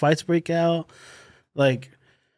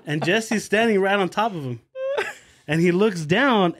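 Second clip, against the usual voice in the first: ordinary delivery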